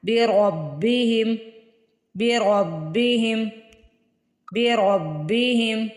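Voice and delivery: بربہم with a full heavy را; slow بربہم, ra said thick. Shown as a demonstration. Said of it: "را کو موٹا پڑھنا ہے". (بربہم میں را موٹا)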